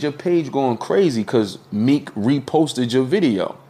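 high, slow excited friend; imitating friend. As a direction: lift the pitch, draw it out. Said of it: "He said".

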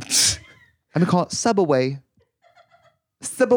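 high, slow put-on voice, a hammed-up clueless customer; lightly voiced mock naivety. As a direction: drag out the chain name like a sheltered innocent. Mocking naive voice.

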